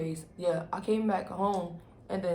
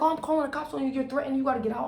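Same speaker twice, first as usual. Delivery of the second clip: imitating the shelter lady; 6 semitones higher, much faster than usual. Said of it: "So then she like".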